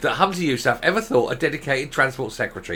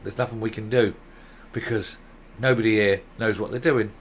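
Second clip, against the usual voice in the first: resigned shrug; 5 semitones lower, 4 dB quieter than usual. Retold or imitated. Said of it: "they'll all just sort of shrug their shoulders and go".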